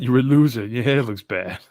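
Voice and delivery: lightly voiced, low-key impression of a politician; Donald Trump. Co-host recalling an old impression for the others, lightly imitated. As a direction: recall a comic's impression, only lightly put on. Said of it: "find the old Trump Adam impression".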